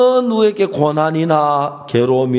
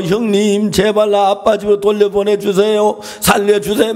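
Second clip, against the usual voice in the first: put-on higher, urgent plea to older brothers; acted begging; 4 semitones higher than usual. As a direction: plead for rescue as a preacher retelling it. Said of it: "막 애걸어 빌어도".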